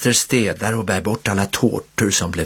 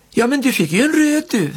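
kind reply. A narrator's reading. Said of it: "svarar faster vänligt".

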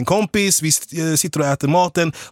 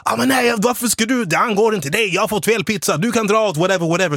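higher-pitched dismissive rude guy; lightly voiced rude customer waving off the stranger; 5 semitones higher than usual. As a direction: brush him off like an entitled customer.

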